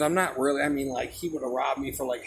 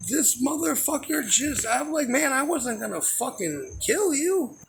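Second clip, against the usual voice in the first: amused disbelief; 11 semitones higher than usual. Real, not acted.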